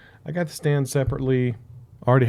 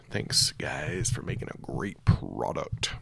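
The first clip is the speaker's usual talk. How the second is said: whispered thanks; 10 semitones lower, 6 dB quieter, slower than usual. Acted.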